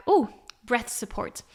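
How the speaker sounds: breathy whisper, like finding a treat; whispered discovery. Pretend. Singer finding breath support in her backpack, whispered. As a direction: whisper it as a little secret find. Singer imagines picking a technique.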